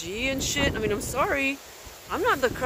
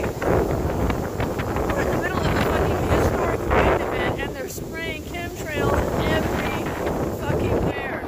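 loud, higher angry rant; pissed off; 7 semitones higher, 4 dB louder than usual. Real, not acted. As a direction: vent the fury right at the sky. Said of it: "I'm just really pissed right now".

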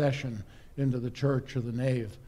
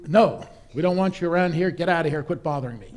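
angry refusal; 2 semitones higher, 5 dB louder, faster than usual. Acted. Innkeeper refuses again.

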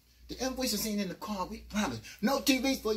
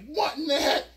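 higher, louder confused ask; bewildered; 6 semitones higher, 5 dB louder than usual. Retold or imitated. Narrator confused in the cell. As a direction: ask it like you're lost. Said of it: "I'm like".

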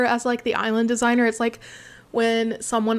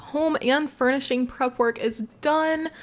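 excited cheer; 5 semitones higher than usual. Real, not acted. Cheering near goal.

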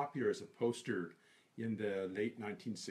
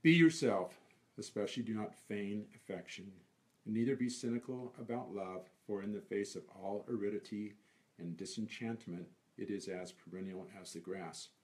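poem recitation; 2 semitones lower than usual. Acted. Reciting a favorite poem to an interviewer, measured recitation. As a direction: announce the first words, then recite phrase by phrase.

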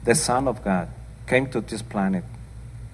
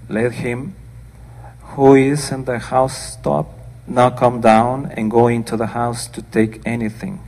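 louder, declaiming Bible reading; scripture reading; 3 dB louder than usual. Acted. Preacher reading the Gospel aloud to her congregation, declaiming. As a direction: read it out to the church with weight.

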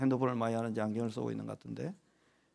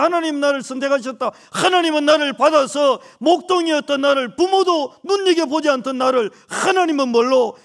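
full-force preaching; 11 semitones higher, 9 dB louder than usual. Acted. Pastor proclaiming God's acceptance to the young remnants, full-force preaching. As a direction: thunder it out like a revival preacher.

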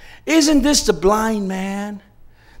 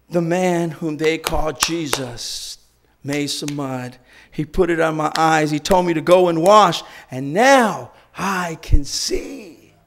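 slow calm testimony; slower than usual. Retold or imitated. Healed man testifies again.

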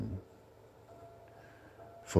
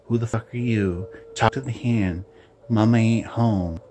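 higher, louder imitation of in-your-face attitude; mock confrontational sass; 5 semitones higher, 5 dB louder than usual. Women confronting anyone with an issue, mock sassy attitude. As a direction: get up in someone's grill, mockingly. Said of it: "they're right up in your grill".

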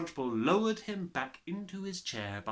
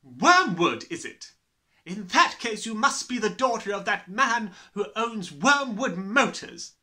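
loud, high, booming tyrant voice; bullying headmistress; 10 semitones higher, 9 dB louder than usual. Acted. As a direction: gloat like a brutal headmistress. Trunchbull's voice held.

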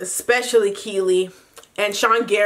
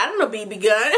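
laughing through it; faster than usual. Retold or imitated. The speaker's mock ignorance, laughing.

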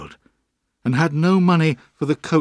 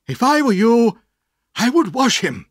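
put-on higher, eager old gentleman's suggestion; bright idea; 11 semitones higher, 6 dB louder than usual. A narrator's reading. Mister Dick suggests washing the boy, eagerly. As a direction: offer the answer proudly.

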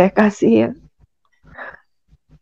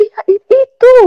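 eager reply; 4 dB louder, slower than usual. Retold or imitated. Her reply to father.

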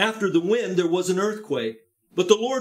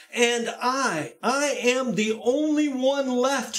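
Elijah complaining; 5 semitones higher than usual. Acted.

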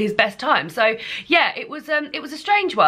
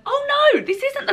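sharp jump up in pitch on oh no; a quick startled oh no, much higher; sudden oh no. Real, not acted. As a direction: catch your own mistake mid-sentence. Realises she listed the wrong film.

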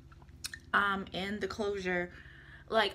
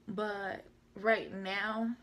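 real wobble in the voice, drawn out slowly; shaky voice; much slower than usual. Real, not acted. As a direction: let the voice waver on slow words. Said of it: "my voice was just shaking".

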